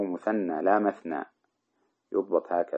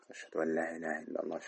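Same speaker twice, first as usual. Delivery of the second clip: softer, quicker testimony of faith; muezzin's lowered voice, said quickly; lowered but audible; 2 semitones lower, 10 dB quieter, faster than usual. Shown as a demonstration. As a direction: recite it in a hushed, still audible voice. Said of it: "يقولها بصوت يسمع".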